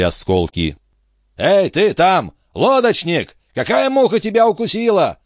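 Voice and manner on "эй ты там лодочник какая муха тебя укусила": high, sharp call to a boatman; high-pitched cry. Acted. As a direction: cry out high, demanding an answer. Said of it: "закричал Антифер". (высокий возмущённый окрик)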